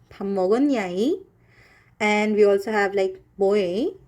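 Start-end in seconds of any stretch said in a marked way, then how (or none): 0.1-1.2 singsong Cholla. Shown as a demonstration. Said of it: "it sounds like this".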